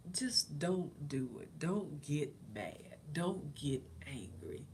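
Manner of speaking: very slow, soft self-talk; calming herself. Retold or imitated. Calming herself instead of snapping at husband, slow and soft. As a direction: ease yourself down, slowly. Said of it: "I just calmed myself".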